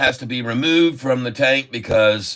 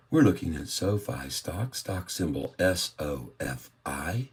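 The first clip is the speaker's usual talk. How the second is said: golf commentator voice. Acted. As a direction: murmur the numbers like a golf commentator at the green. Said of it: "Let's go with the golfing voice".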